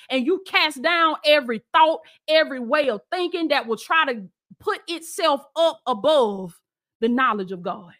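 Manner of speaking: rising preacher's cadence; fervent sermon delivery; preaching. Acted. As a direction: preach it out to the congregation. Preaching prayer over spirits.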